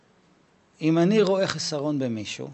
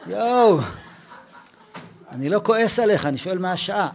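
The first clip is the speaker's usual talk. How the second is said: laughing protest; 3 semitones higher, 4 dB louder than usual. Retold or imitated. Rabbi laughing, exasperated.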